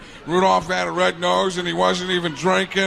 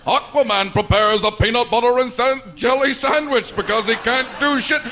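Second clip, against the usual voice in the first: announcer voice; 4 semitones higher than usual. Retold or imitated. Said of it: "That guy who'd come out and go".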